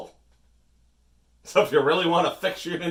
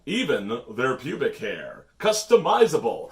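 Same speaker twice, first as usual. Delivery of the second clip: infomercial. Pretend. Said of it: "like an infomercial".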